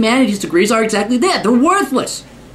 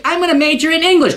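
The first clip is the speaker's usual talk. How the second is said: mock student; 6 semitones higher, faster than usual. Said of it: "You really think".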